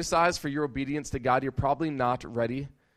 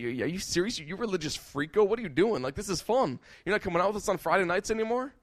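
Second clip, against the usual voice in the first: higher, teasing disbelief; mocking friends; 6 semitones higher than usual. Friends mocking the student who quit partying, teasing. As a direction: sneer at them like a party friend.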